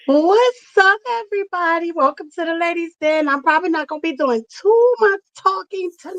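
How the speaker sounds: strained hoarse voice after yelling; pushing through a worn-out voice; lost voice. Real, not acted. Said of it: "Sound like you struggling".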